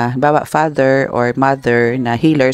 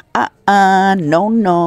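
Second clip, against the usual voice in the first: high, laughing no-no at the card; laughing surprise; 7 semitones higher, much slower than usual. Real, not acted. Tarot reader reacting to a card, laughing in surprise. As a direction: laugh it off in disbelief.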